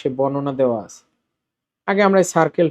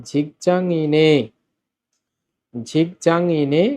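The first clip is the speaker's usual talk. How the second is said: slow syllables; slower than usual. Shown as a demonstration. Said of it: "নিউন উপরে গিয়ে হবে এ".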